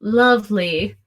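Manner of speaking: drily sarcastic "lovely"; a touch of sarcasm. Acted. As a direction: set the word apart with understated sarcasm. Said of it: "you could hear the sarcasm in her voice".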